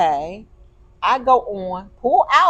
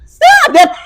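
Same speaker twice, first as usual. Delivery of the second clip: tearful shout; 12 dB louder than usual. Real, not acted. Overwhelmed, cohost comforting her.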